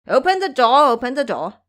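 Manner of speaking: loud repeated shout at the door; yelling. Acted. Ba Jie yelling at the cave door to open up, loud. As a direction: bellow it, pounding to be let in. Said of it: "went up there and yelled".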